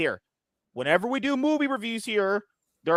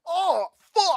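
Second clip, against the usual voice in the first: acted arousal; 11 semitones higher than usual. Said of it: "you're just like".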